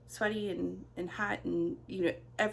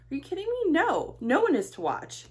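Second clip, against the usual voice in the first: mock indignant; 8 semitones higher, 8 dB louder than usual. Mock outrage at daughter.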